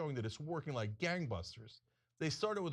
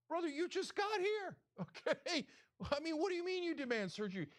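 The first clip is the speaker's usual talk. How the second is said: incredulous; 9 semitones higher than usual. Real, not acted. Incredulous, pitch raised.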